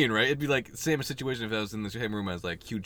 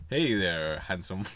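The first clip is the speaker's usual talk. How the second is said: low, hushed mock come-on; lightly hammed-up flirting; mock flirty greeting; 5 semitones lower than usual. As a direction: play at sweet-talking a movie star. Acted flirty greeting to actor.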